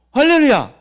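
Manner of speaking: high, loud hallelujah; exultant shout. Real, not acted. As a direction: call it out to the whole congregation. 회중에게 외침. (크고 높게 외치는 할렐루야)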